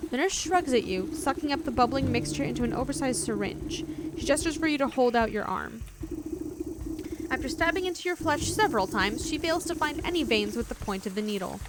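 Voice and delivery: even narrator voice reading the scene; story narration. A narrator's reading. Streamer reading the nurse scene aloud, calm narration. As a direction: read it like a game's storyteller, steady.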